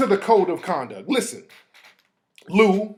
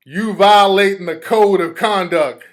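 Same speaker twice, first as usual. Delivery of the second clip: slow, louder mock read of his text; 5 dB louder than usual. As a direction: drag out his words to mock him. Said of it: "He said".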